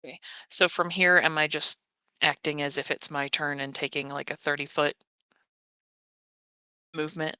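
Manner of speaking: garbled robotic connection voice; glitchy robot voice over a bad call. Real, not acted. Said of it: "it's the robot voice".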